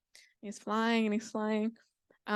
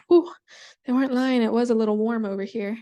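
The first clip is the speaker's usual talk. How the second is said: louder, heat-struck remark; relieved exclamation; 6 dB louder than usual. Acted. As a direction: exclaim at the heat, lightly acted. Spider reacts to fire's heat.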